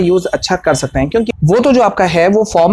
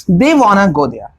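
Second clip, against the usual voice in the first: They wanna go there, spaced and slow; slow drill sentence for repetition; slow practice model; much slower than usual. Shown as a demonstration. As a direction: say it slowly so students can repeat. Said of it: "आप मेरे साथ में practice कर सकते हैं".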